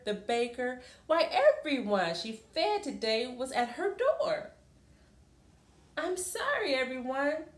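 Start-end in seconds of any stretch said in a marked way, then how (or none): 6.0-7.5 apologetic Amu. Acted. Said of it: "Omu said".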